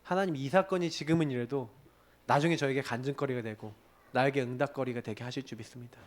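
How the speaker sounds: retold sincere prayer of faith; confession of faith. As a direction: declare faith quietly. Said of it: "믿음의 고백하게 하더라".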